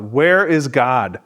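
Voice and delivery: an understated, drawn-out retold cry; retold outcry. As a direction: cry it out slowly, only half in earnest. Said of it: "One of them cries out".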